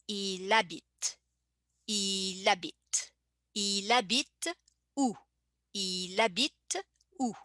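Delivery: "il habite" as one word "ilabite"; linked il habite. Shown as a demonstration. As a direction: join "il" and "habite" with no break. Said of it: "H being silent, you would say".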